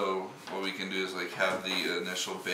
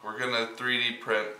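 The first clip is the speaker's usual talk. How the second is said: echoey room; 2 semitones higher, 4 dB louder than usual. Real, not acted. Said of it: "It's gonna sound really echoey in here".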